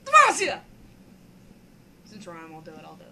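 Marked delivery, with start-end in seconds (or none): 0.0-0.6 loud high war cry; battle cry shout. Pretend. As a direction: bellow it like a champion.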